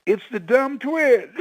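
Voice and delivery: high, slow, urgent calling; excited call. Retold or imitated. Husband calling his wife to come see, high and excited. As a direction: summon her in high excitement.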